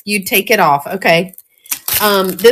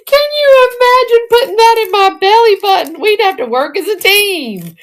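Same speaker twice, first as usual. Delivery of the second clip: high giggly disbelief; tickled, high and giggling; laughing; 12 semitones higher than usual. Real, not acted. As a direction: squeal it out through laughter. Laughing at belly button earring.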